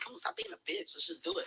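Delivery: high mock wife voice; mock nagging wife; high teasing wife. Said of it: "She's like".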